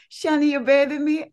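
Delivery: a light imitation of the aunt's amazement; aunt's surprise. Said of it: "and she said".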